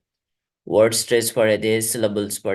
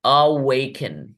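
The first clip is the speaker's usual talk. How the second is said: slow demo; much slower than usual. Shown as a demonstration. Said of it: "अगला शब्द है".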